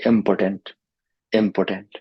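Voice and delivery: "important" with stress moved off "por"; misplaced stress. Shown as a demonstration. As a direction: say "important" like impotent, with a weak middle syllable. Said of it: "it sounds like".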